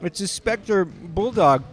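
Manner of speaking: talking through a stuck mouthful; talking with mouth closed. Real, not acted. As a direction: mouth glued shut with candy. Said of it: "my mouth is glued shut by fruit by the foot".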